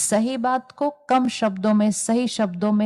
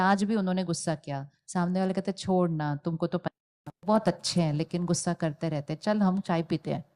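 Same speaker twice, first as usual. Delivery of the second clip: softer, quick behind-the-back chatter; lightly voiced colleagues shrugging it off, softer; hushed office gossip; 6 dB quieter, faster than usual. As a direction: mimic coworkers murmuring outside the office. Colleagues gossip after scolding.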